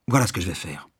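lightly suggested eating while declaring; between mouthfuls. A narrator's reading. Householder making an offer while eating, between mouthfuls. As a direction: announce it between two bites. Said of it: "déclara-t-il entre deux bouchées".

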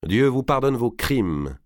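lent, froid, retenu; colère froide. Acted. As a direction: pardon glacé et méprisant. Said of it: "avec une colère froide". (froideur lente)

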